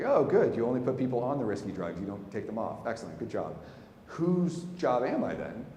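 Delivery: high, loud, biting sarcasm that slows at the end; mock praise boiling over into exasperation; sarcastic outburst. Retelling it to the nurse, sarcastic and exasperated. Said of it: "And my head exploded".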